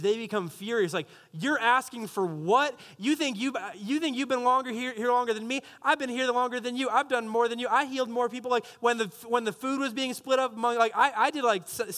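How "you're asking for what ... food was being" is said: mock indignant rant. Disciples quarrel over rank.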